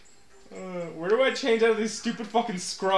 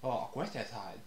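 put-on Asian accent; 8 semitones lower, 13 dB quieter than usual. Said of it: "We should not do accents".

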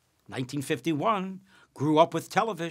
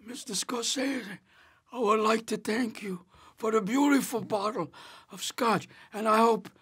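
candy in mouth; 7 semitones higher than usual. Retold or imitated. Mouth full of candy, mock formal.

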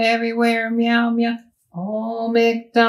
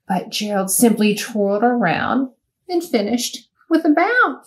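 lively rhyming read-aloud; bouncy storybook narration; reading to children. A narrator's reading. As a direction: read it like storytime for little ones. Reads picture book to children.

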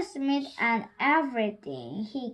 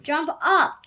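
calling out; 4 semitones higher, 6 dB louder than usual. A narrator's reading. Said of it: "called Harry Smith".

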